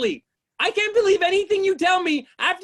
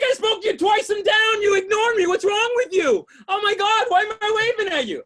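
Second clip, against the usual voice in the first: 1 indignant outburst; 6 semitones higher than usual. Retold or imitated. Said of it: "I was like".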